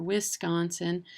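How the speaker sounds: "Wisconsin" with a clear "wiss" first; first syllable of "Wisconsin" fully said as "wiss"; outsider mispronunciation. Retold or imitated. Imitating people not from here, "Wisconsin" as "Wiss-consin". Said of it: "Oh, they're not from here".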